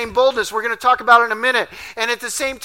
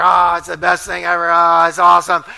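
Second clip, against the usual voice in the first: loud delighted shout; excited kid; 4 semitones lower, 4 dB louder than usual. Retold or imitated. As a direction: burst out like a thrilled boy. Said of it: "He's like".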